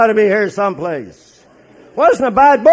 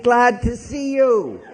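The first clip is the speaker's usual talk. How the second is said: slow, grinning welcome through a laugh; smiling greeting; 7 semitones higher, slower than usual. Retold or imitated. Frank greeting the new patient with a big slow grin. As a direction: beam at him while you greet. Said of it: "He's smiling at me and saying".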